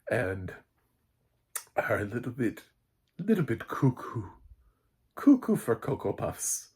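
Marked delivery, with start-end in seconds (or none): 3.2-5.6 higher, sing-song cuckoo; mock crazy. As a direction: tease it like they're nuts. Calling the hostiles crazy.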